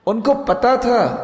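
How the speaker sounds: high and loud, کو held long and falling; emphatic call. Real, not acted. Preacher stressing to the congregation, high emphatic call. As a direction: ring out ان کو پتا تھا with کو high.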